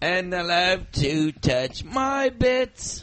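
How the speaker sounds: slow, drawn-out mock Essex lad; hammed-up pop hopeful; imitating a pop singer. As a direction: savour it slowly in a put-on voice. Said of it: "The next one is Ollie Murs".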